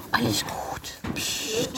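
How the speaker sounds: soft soothing whisper. Real, not acted. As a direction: hush it gently. Calming horse, whispered take.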